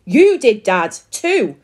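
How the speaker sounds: loud, accusing retort; bellow. A narrator's reading. Daughter turns on her dad, bellowing. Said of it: "bellowed Susie".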